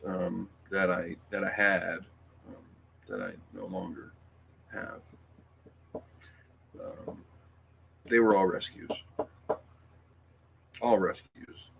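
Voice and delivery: halting, choked-up with long pauses; getting emotional. Real, not acted. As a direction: struggle to get through it, stopping between phrases. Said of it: "Sorry, I'm getting emotional".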